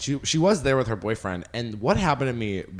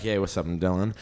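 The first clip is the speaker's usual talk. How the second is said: lower, butch greeting voice; Mask voice; 4 semitones lower than usual. Retold or imitated. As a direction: play it cool and masculine. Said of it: "I code switch everywhere I go".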